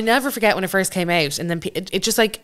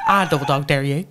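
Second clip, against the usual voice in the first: lower-pitched imitation of a Derry girl; imitated Derry dare; Derry accent; 5 semitones lower than usual. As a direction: do the Northern Irish schoolgirl's Derry catchphrase. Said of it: "when you make that accent".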